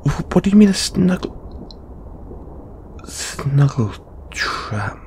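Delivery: high, quick, stuttered question; baffled. Acted. Questioning companion's snuggle trap, baffled and flustered.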